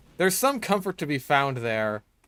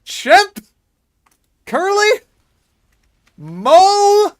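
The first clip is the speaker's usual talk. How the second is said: put-on very high, loud squeaky girl voice; 10 dB louder than usual. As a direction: squeal it like a cutesy gamer girl. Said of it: "I'm the best e-girl voice".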